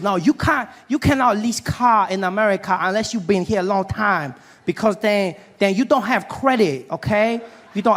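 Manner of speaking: lightly voiced Asian car dealer, broken English; Asian dealer impression. Car dealer telling newcomer he lacks credit, mild accented impression. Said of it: "this Asian gentleman helping me".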